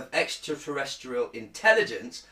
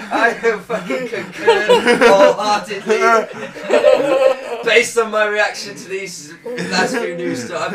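laughing; 8 semitones higher, 11 dB louder than usual. Real, not acted. Laughing at his own answer.

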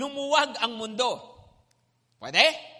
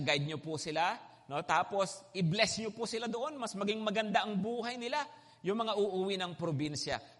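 quoted prayer; 3 semitones lower than usual. Retold or imitated. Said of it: "ako pinagpipray ko yan".

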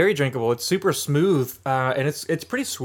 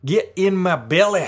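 a hammed-up ogre voice, slow and a bit higher; Shrek voice; 4 semitones higher, 4 dB louder than usual. Host jokingly channels Shrek while cracking the beer, mock Shrek voice. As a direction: growl it like a cartoon ogre, badly. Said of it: "He's gonna try to do like Shrek".

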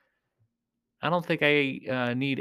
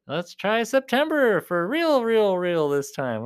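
mock pleading; 6 semitones higher, 4 dB louder, slower than usual. Mocking the band's release promises.

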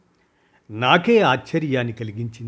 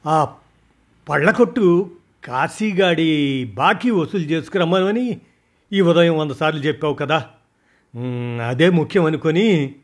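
hesitant excuse; 3 semitones higher than usual. Acted. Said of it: "నీళ్లు నమిలాడు".

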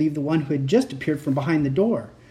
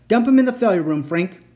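triumphant order; 4 semitones higher, 6 dB louder than usual. A narrator's reading. Triumphant command to robot.

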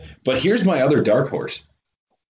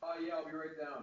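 mock breathy low voice; imitating deep voice; 7 semitones higher, 24 dB quieter than usual. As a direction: parody a strained deep voice. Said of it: "he's even making fun of you".

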